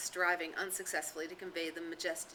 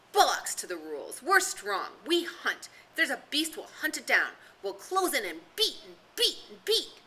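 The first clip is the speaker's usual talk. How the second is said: loud, higher defiant shouting; 6 semitones higher, 6 dB louder than usual. Acted. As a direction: shout him down, boastful. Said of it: "Jack was shouting against him".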